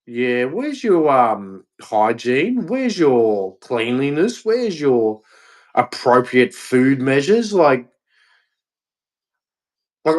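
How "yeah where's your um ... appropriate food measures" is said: slow, drawn-out disdainful questions; mild haughty inspector, slow; condescending mock quote. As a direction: look down your nose and ask slowly. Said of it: "we look at how yous live and we go".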